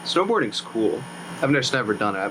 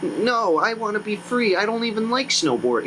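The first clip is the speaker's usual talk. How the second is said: defiant plea; 7 semitones higher than usual. Retold or imitated. Son defies his father.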